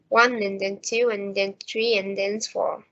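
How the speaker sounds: numbers on the beat, "and then" squeezed between; light, quick "and then" between steady beats; even stress timing. Shown as a demonstration. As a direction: keep "One", "two", "three", "four" evenly stressed. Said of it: "time between stressed words is always the same".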